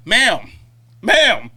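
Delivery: loud, clipped "Ma'am" with a snippy edge; curt ma'am. Retold or imitated. Server snapping "Ma'am" at a complaining customer, loud and curt. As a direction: cut him off with a sharp "Ma'am".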